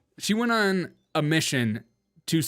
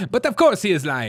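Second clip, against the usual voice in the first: louder, higher mock Southern accent; A O C's Southern accent; 4 semitones higher, 6 dB louder than usual. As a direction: ham up the Southern twang. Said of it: "What is this accent?".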